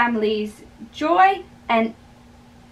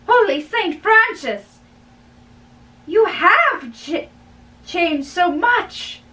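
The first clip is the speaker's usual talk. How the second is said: astonished exclamation; 5 semitones higher than usual. Acted. Friar shocked by Romeo's change.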